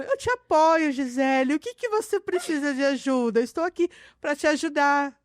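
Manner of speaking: lightly voiced sugary voice; a touch of fake sweetness; cutesy voice. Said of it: "Aquele que vem com a voz fofinha".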